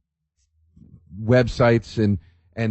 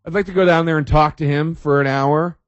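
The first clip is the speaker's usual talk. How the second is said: eager guest; 5 semitones higher than usual. Retold or imitated. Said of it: "Do people say".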